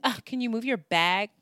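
lightly mocking, annoyed "ugh" then a rising question; put-on huffy complaint; stuck-up woman. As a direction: mildly imitate a snooty passenger. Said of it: "that's how she was talking".

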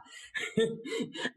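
genuine giggle bursting out; real laugh. Real, not acted. Teacher breaks into a real laugh after a fake one. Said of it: "That always makes me laugh".

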